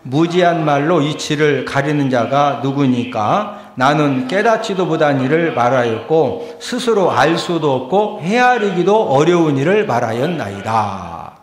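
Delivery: firm, measured congregational reading; declaimed Bible verse; scripture reading. Real, not acted. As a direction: read the verse aloud deliberately, phrase by phrase. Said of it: "한 번 더 읽습니다".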